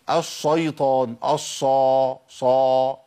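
الشيطان with a heavy, dark "sho"; thickened shin. Shown as a demonstration. Teacher mimicking those who misread it, heavy shin in الشيطان. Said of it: "يا عم مش الشا".

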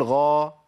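"غا" held long, heavy but without itbaq; heavy Ghayn for contrast. Shown as a demonstration. Teacher contrasting it with Sad, lesser tafkhim. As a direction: sustain "ghaa" from the back of the mouth. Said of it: "غير لما أقول".

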